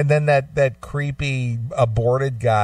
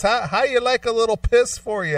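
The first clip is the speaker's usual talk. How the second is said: mock tough guy; 10 semitones higher than usual. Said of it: "he goes".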